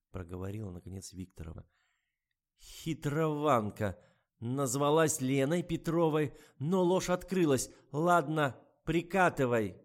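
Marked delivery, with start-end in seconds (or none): 2.6-9.8 high, loud and slow sarcasm; mocking old woman. A narrator's reading. Anna Mikhailovna mocks the writer and introduces herself, high and loud. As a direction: sneer at her acting.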